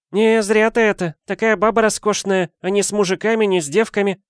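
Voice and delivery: high, bright-pitched coaxing friend; Valentina voice. A narrator's reading.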